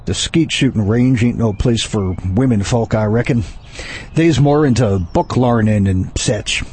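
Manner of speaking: put-on low, drawling cowboy accent. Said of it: "You sound like a cowboy".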